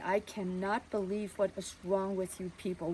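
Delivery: a father forcing himself to stay calm; father quietly answering the nosy neighbor; held-back anger. Retold or imitated. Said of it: "he was just gonna explode".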